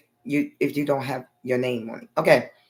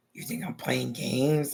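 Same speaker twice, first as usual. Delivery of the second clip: slow, quiet threatening question; menacing mom; 3 semitones lower, 5 dB quieter, slower than usual. Retold or imitated. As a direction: lean in low and slow, daring her. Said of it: "Like that".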